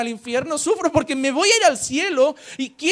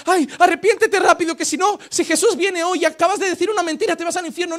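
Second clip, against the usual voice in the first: mock panicked warning; 4 semitones higher, 4 dB louder than usual. Acts out fearful self-warning after sinning.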